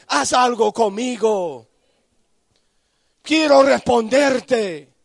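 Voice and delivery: de ruego suave a clamor alto y fuerte; oración que crece. Acted. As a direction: empieza íntimo y sube hasta gritar. Prayer voiced to God. (el creyente ora a Dios, de susurro a clamor)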